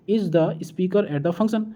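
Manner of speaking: teacher slowly reads the gapped question to students, slow and rising; slow sentence reading. Shown as a demonstration. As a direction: read out slowly, word by word with a rising end. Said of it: "सही प्रश्न शब्द भरें इसमें".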